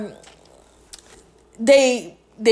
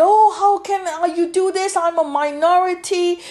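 raised, mocking voice of a wounded protester; mock indignant complaint; 5 semitones higher than usual. Mocking the questioner who cries minority, indignant parody. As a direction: parody their outrage, pitched up.

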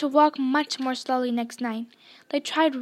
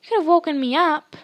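louder, aggrieved complaint; cross; 4 semitones higher, 7 dB louder than usual. A narrator's reading. Scene: Ron to Harry at breakfast, cross and louder. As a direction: scold your friend for leaving you asleep. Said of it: "said Ron crossly".

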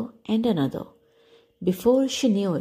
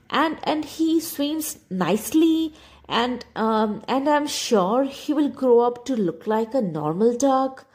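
stuttering; 2 semitones higher than usual. Acted. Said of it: "the mother duck stuttered".

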